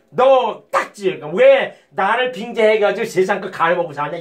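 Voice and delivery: slow, drawn-out mock scolding; God's rebuke. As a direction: drag it out like a stern rebuke from above. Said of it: "이렇게 얘기를 한 겁니다".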